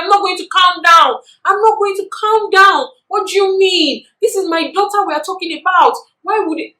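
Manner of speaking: loud, high shouted refusal; refusing to calm down. Retold or imitated. Mom shouting at teachers urging her to calm down, furious shout. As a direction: shout them down, you won't be calmed. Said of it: "And she went ballistic".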